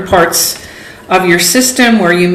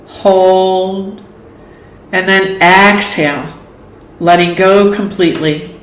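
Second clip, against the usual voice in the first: guided meditation. Acted. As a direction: lead them calmly through each breath, leaving space between phrases. Leads a yoga nidra relaxation.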